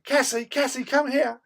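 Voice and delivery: high, loud call to the dog. Retold or imitated. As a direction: yell the name across the field. Both groups calling dogs.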